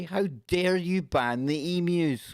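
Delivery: high, drawn-out mock indignation; mock outrage. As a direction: protest slowly on the emus' behalf, hammed up. Mock outrage on emus' behalf.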